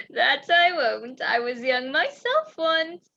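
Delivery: loud, drawn-out hearty assurance; hearty, conspiratorial. Acted. Innkeeper promises runaway couple to keep their secret, hearty. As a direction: promise it loudly and slowly, like an ally.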